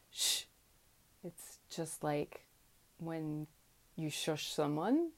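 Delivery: Shh blown over the hard palate; breathy Shh behind the teeth; shush. Shown as a demonstration. Teacher demonstrating the sh consonant. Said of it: "blow air over the hard palate".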